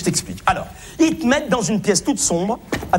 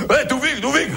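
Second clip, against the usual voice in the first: imitating Alain; 5 semitones higher than usual. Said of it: "Il fait comme ça".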